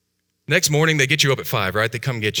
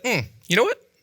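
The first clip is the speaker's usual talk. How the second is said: put-on knowing kid; 12 semitones higher than usual. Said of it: "I was like".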